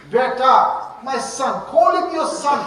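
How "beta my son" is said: tender. Shown as a demonstration. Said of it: "tell him with a smile on your face".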